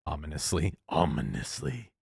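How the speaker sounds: scoffing, laughing repeat of ominously; mocking repeat. Shown as a demonstration. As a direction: say ominously like you can't believe it. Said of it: "because you just murdered his friend".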